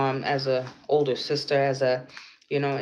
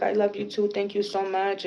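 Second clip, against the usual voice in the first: higher-pitched imitation of her; grateful young woman; 6 semitones higher than usual. Retelling the young woman's grateful reply, lightly voiced higher. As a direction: lightly voice her affection, up high. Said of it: "She's like".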